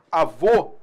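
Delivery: avô with a closed final o; closed vowel. Shown as a demonstration. Teacher shows the circumflex, avô said with a closed ô. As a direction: round and close the stressed ô of avô. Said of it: "pra marcar um timbre fechado".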